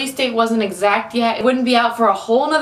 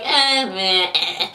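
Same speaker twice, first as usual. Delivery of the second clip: unenthused friends; 3 semitones lower, much slower than usual. Retold or imitated. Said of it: "they all like".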